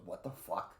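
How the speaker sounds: hushed, voiceless mutter; Leon. Acted. Imitating shaken Leon reacting to enemies, hushed mutter. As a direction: mutter it softly under your breath. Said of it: "Even Leon still goes".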